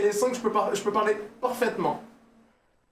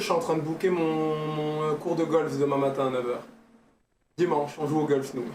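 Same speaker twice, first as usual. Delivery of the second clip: lower, softer, slow snobbish drawl; posh snob; 5 semitones lower, 4 dB quieter than usual. Pretend. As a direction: brag idly like a bored rich man. Posh persona booking golf.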